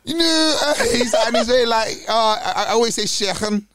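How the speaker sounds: hint of a Liverpool footballer pundit; Jamie Carragher. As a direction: Jamie Carragher's Scouse, throaty ch. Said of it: "I do the Jamie Carragher".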